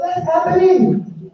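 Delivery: imitating an elder overcome with excitement; excited exclamation. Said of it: "He got so excited".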